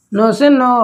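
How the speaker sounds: firm repeat. Shown as a demonstration. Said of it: "तो ना से याद रखिएगा".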